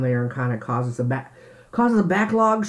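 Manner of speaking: talking through a mouthful; words round a bite of food; mouth full. Real, not acted. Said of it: "filming while I'm eating".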